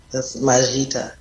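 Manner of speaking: teacher repeating Majita for the learner; confirming. Shown as a demonstration. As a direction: confirm the word Majita gently. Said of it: "how do you say thank you".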